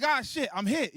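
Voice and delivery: high-pitched mock announcement; movie-style alarm. Showing how to let people know, mock movie alarm. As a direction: call out the hit like a movie line. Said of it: "that's how you gotta let people know".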